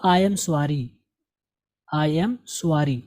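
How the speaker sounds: SORRY as "su-aa-ri" with an added w glide; common wrong "suari". Retold or imitated. Teacher imitates what many people say, wrong "suari". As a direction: imitate learners saying "I am su-AA-ri". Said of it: "बहुत से लोग पढ़ेंगे इसको".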